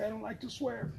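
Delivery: high, soft, meek reply; timid victim. Acted. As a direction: play meek before the interrogator. Timid victim answering Batman.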